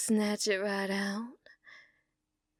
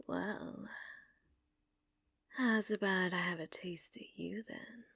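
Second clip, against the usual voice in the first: whisper; 3 semitones lower, 11 dB quieter than usual. Acted. Whispered flirt to bartender.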